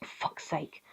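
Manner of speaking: muttered, half-whispered grumbling; mock teen sulking, mostly whispered; moody teen dog voice. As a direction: grumble it like a sulky teenager under your breath. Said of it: "he's just like".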